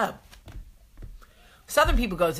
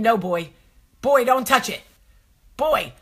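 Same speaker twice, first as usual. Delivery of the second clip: put-on urgent, louder pleading to the boy; panicked warning; 3 semitones higher, 4 dB louder than usual. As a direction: beg him not to do it. Mom's inner panic.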